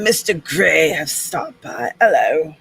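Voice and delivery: playful, badly faked British accent. Greeting Mister Gray who stopped by, bad British accent. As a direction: put on a rough British accent. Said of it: "it gets a bad accent".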